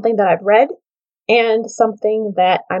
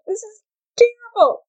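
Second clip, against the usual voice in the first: mock dismay; 12 semitones higher than usual. Dismay at being a four.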